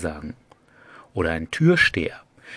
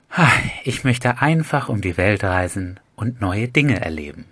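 dreamy stoner; 3 dB louder than usual. Shown as a demonstration. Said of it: "verträumten Typen, der ein bisschen bekifft ist".

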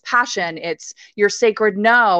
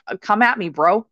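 mock tough-guy taunt. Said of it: "having game face on and being like".

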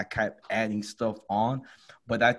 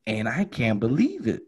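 ordinary talk

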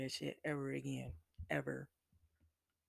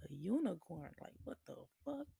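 stunned disbelief; 3 semitones higher than usual. Retold or imitated. Answering the couple's unicorn request, fast high disbelief. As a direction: voice jumps way up and rushes fast.

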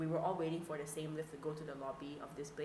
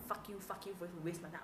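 muttered cursing; 6 dB quieter than usual. Retold or imitated. Host mumbles about a time-waster, softly resentful. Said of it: "I'll, like, mumble to myself".

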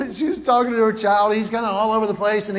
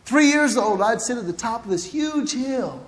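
usual speaking voice

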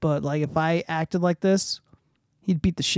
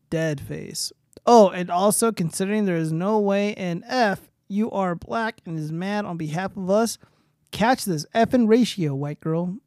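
emphatic read-out, high and loud at first; reading a tweet aloud; 3 semitones higher, 3 dB louder than usual. Acted. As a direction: read the post out with punchy emphasis.

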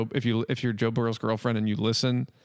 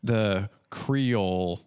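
put-on Cajun accent; 4 semitones lower, much slower than usual. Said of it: "Are we doing more Gambit impressions?".

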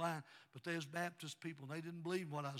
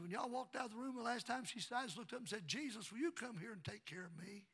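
put-on higher, lilting child's telling; little daughter; 5 semitones higher than usual. Little girl telling Daddy about Jesus, higher. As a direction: lift it high like a small child.

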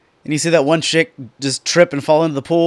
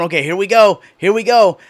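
louder, higher here we go; excited anticipation; 3 semitones higher, 4 dB louder than usual. Retold or imitated. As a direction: build up the thrill, louder on each go. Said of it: "I'm going".

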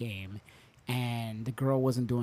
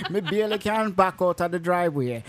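put-on Jamaican accent; 4 semitones higher, 3 dB louder than usual. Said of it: "with a thick Jamaican accent".

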